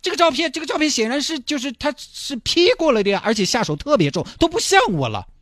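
put-on boy telling grandpa the photo is wrong, high and childlike; insistent little boy. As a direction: protest like a puzzled six-year-old.

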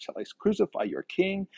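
high, incredulous sarcastic question. Retold or imitated. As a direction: pitch it way up in mock disbelief. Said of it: "this sarcasm in that".

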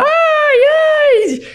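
very high, loud mock scream; imitated passengers' screams. Storyteller imitating everyone screaming in the gust, high-pitched shriek. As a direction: shriek like a cabin full of panicked passengers. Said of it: "toda a gente a gritar".

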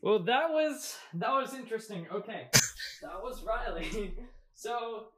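off-mic, voice distant; speaking away from the microphone; far from mic. Real, not acted. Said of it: "I just realized I walked away from the mic".

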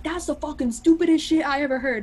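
lightly voiced contemptuous bro; mocking guy. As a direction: parody a dismissive guy trashing it. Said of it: "be like".

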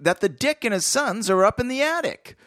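high, hammed-up gangster voice; overacted crook reading; hammy villain read. Reading villain dialogue aloud.

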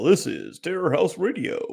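radio voice. Shown as a demonstration. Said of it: "I tried a radio voice".

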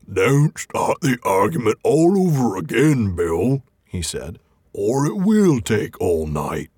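slow, lightly voiced grumbling troll; a hint of an irritated troll; troll Bert. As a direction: play Bert as a cranky troll. Bert answering in story.

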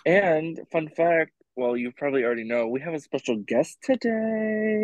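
podcast host voice, hushed then high; teasing host announcement. Acted. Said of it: "not my hosting voice".

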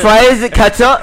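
slow, laughing mock complaint. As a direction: drag it out while laughing. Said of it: "imitating worker".

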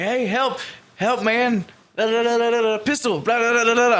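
high, loud garbled cries for help; imitated yelling. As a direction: shout half-intelligible pleas, hammed-up. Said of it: "I just hear this guy yelling".

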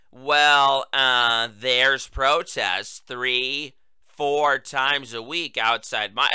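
slow halting old senator voice, lightly voiced; Charles E. Schumer. Host mimicking the senator answering reporters, slow and halting. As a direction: drag it out like a fumbling elderly politician. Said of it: "Yeah, in that voice".

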